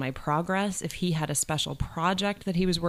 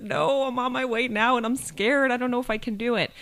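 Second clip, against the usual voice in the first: retold fear; 8 semitones higher, 3 dB louder than usual. Retells being scared on phone.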